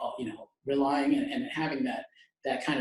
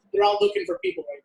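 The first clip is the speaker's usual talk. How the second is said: yelling over helicopter; 6 semitones higher, 5 dB louder than usual. Real, not acted. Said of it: "Excuse the helicopter".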